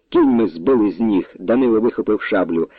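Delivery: plain reading voice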